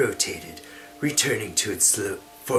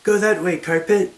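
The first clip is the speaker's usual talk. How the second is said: high, loud command; hammy stage actor; 8 semitones higher, 7 dB louder than usual. Acted. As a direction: command the carpet loudly. Amira commanding the carpet.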